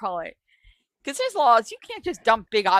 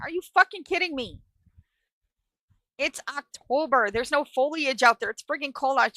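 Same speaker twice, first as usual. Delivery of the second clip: higher-pitched, exasperated disbelief; incredulous protest; 5 semitones higher than usual. Retold or imitated. Teen objecting to mom's dumping plan, incredulous. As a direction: push back as if the order is absurd.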